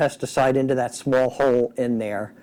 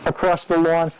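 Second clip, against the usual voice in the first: talking through a respirator mask; words muffled behind a face mask. Real, not acted. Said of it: "I hope you can hear me through this mask".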